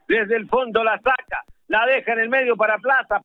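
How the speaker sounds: football radio commentary, running with the ball; South American radio football commentator; live play-by-play. Real, not acted. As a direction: call the match live on radio.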